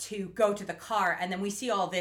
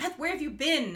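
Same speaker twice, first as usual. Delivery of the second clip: cartoonish fake German scientist accent; 8 semitones higher than usual. Speaker retells what a woman said to Beth: cartoon Nazi scientist accent. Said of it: "cartoon Nazi scientist accent".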